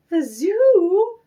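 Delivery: high, dismayed cry of disbelief; miserable exclaim. A narrator's reading. Mrs Prim hearing Lyle goes to the zoo, miserable cry. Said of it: "Missus Prim exclaimed miserably".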